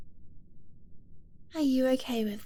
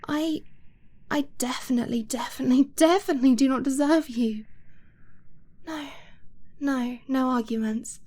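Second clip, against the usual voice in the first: agitated protest. Acted. Overwhelmed lover protesting unworthiness.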